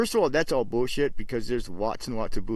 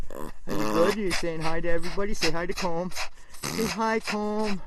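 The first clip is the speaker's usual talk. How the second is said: pet talk; 4 semitones higher than usual. Real, not acted. Owner tells his chihuahua to greet Colm, higher pet talk. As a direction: coax the dog to greet the viewer.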